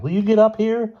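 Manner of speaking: loud, high impatient call. A narrator's reading. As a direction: yell up to him. Calling to friend up tree.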